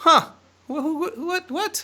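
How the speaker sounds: high, squeaky, stunned double-take stammer on "what what". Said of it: "and I was like".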